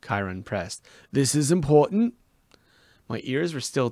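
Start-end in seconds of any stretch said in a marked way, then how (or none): 1.1-2.1 urgent insistence. Acted. Chiron pressing.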